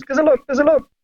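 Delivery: high, fussing mum voice; a hint of a worried mother; imitating mum. Mum checks her son's foot, high and fussing. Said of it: "She goes".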